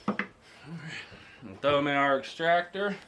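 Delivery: numb mouth after a tooth pulled; talking funny after tooth out. Real, not acted. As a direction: speak around a sore, numb mouth. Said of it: "that's why I'm talking funny".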